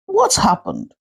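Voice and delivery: high, urgent what happened; alarmed question. A narrator's reading. Neighbor rushing over at night, high alarmed question. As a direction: ask in sudden alarm. Neighbor rushes to panicked mother.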